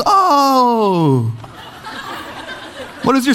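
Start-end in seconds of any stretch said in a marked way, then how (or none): 0.0-1.3 high, long falling oh; hammed-up dawning discovery; kid's realization. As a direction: draw it out as a child finally noticing. Kid suddenly notices the glass.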